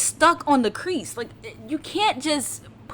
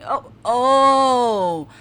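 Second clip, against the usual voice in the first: usual speaking voice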